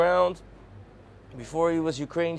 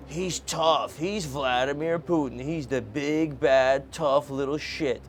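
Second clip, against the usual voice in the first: mock admirer; slower than usual. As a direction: lightly mimic a Putin fan's bragging. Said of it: "delusions that people entertain".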